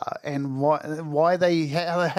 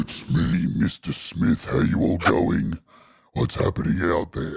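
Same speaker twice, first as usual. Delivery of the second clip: put-on lost voice; 11 semitones lower than usual. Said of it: "He's like".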